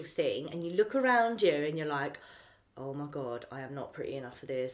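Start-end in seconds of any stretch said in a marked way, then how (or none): 2.8-4.8 low, hushed thinking to oneself; quiet inner panic. Acted. Looking round a smart event, feeling out of place, quiet inner panic. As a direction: murmur private self-doubt, low and soft. Inner self-doubt on arriving.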